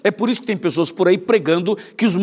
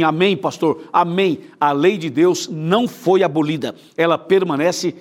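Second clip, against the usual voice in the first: slow solemn response; slower than usual. Shown as a demonstration. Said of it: "E diga assim".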